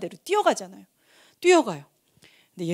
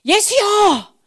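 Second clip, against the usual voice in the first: high, loud cry calling out to Jesus; 크게 부르짖기; 12 semitones higher, 9 dB louder, much slower than usual. Acted. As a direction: shout it at the top of your voice, far above your talking pitch. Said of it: "너무너무 크게 질러야 되는 거예요". (목청껏 크게 외치는 소리)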